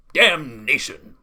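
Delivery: loud, drawn-out curse; Duke's angry shout. A narrator's reading. Thwarted Duke curses at gardener, shouting. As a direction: explode slowly on the one word. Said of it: "shouted the Duke".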